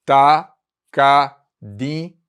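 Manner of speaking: Takadimi stretched out slowly, each syllable clear; slow demo. Shown as a demonstration. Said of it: "Observe que o di eu falo quase com um sotaque". (Takadimi bem devagar)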